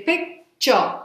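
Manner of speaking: "picture" broken slowly into two syllables, pic-ture; split into syllables. Shown as a demonstration. Teacher showing learners how we say picture, split slowly into syllables. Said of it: "whenever we say the word picture".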